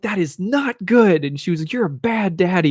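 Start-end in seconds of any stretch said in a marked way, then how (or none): 0.0-1.2 put-on high, slow child scolding; mock-angry kid laying down the law slowly; imitating pissed-off daughter. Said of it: "she got really pissed off". 1.7-2.7 lightly mocked angry child, pitched up; imitating pissed-off daughter. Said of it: "she got really pissed off".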